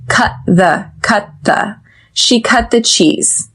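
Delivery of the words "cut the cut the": "cut the" with unreleased T, then a voiced TH; stop T before TH. Shown as a demonstration. Teacher drilling "cut the", silent stop T into clear TH. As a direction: hold the T in "cut", sound the TH of "the". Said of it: "we do not pronounce the T in cut".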